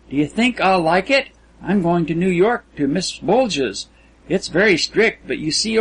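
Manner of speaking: a hint of an innocent, talkative girl; lilting, lightly acted girl's chatter; girlish Kisman. Narrator voices Kisman chatting.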